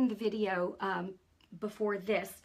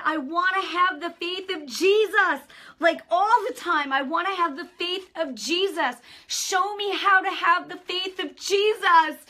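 high, loud, pleading prayer; crying out in prayer; 8 semitones higher, 9 dB louder than usual. Retold or imitated. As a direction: plead with God, voice raised and aching. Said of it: "And I'm crying".

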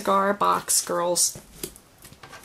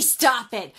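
scolding the dog; 3 semitones higher than usual. Real, not acted. Scolding her whining dog.

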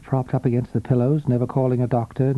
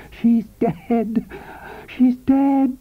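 high, rising triumphant shout; exultant cry; 10 semitones higher, much slower than usual. A narrator's reading. Husband announcing wife's death to lover, exultant. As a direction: burst out with wild relief. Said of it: "crying just as he had in his dreams".

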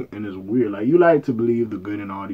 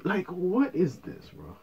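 high disbelief; 5 semitones higher, 11 dB quieter, slower than usual. Real, not acted. Repeats his shocked line.

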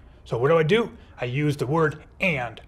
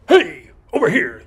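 high, louder call across a room; shouting; 7 semitones higher, 7 dB louder than usual. Pretend. Teacher acting out the monkey that shouts, loud call. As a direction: call out to get attention.

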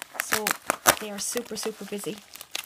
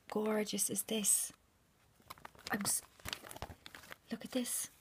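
awed whisper; 4 dB quieter than usual. Real, not acted. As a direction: linger on every word softly. Admiring the gift.

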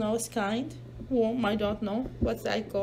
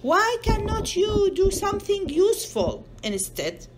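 mock angry; 8 semitones higher, 3 dB louder than usual. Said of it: "He's so mad".

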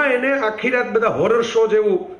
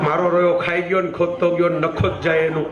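laughing repeat; 2 semitones lower than usual. Shown as a demonstration. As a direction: repeat મારો રહ્યો ખાઈ ગયો ને ખોદતો ગયો with a laugh through it, savoring the Kathiawadi words. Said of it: "કાઠિયાવાડીમાં લઈ આવ્યા".

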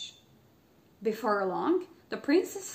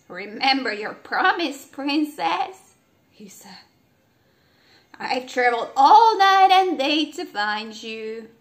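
louder frog, insisting; 3 semitones higher, 9 dB louder than usual. A narrator's reading. Frog reminds the princess of her promise. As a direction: frog presses his claim firmly.

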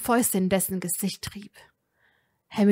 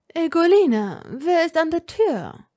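higher, louder demand at the servant; demanding master; 7 semitones higher, 6 dB louder than usual. A narrator's reading. Lucius demanding of his servant, raised and sharp. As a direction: Lucius demands who is at the door. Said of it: "verlangte Lucius zu wissen".

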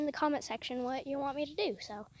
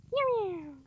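cat meow; 8 semitones higher, 4 dB louder than usual. Pretend. Meowing at the cat.

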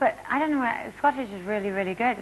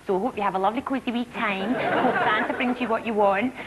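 cosy, smug Scottish presenter; lightly done cosy Lorraine Kelly; Lorraine Kelly impression. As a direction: purr it like a cosy breakfast host. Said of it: "Lorraine Kelly's very popular".

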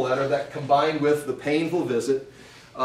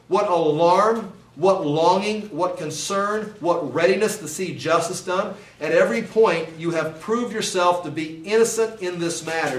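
raised, emphatic reading of the verses; stirring reading of Paul's words; fervent scripture reading; 3 semitones higher than usual. Acted. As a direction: read it like a proclamation, pitch lifted. Reading scripture with rising fervour.

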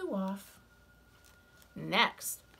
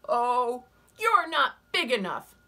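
scornful ladybug voice; 5 semitones higher, 9 dB louder than usual. Acted. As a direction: dismiss them from up high.

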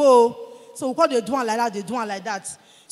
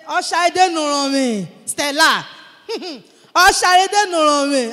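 calling out; 6 dB louder than usual. Retold or imitated. Friend calling her in Yoruba.

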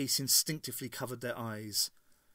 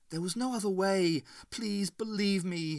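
begging; 7 semitones higher than usual. A narrator's reading. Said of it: "he begged".

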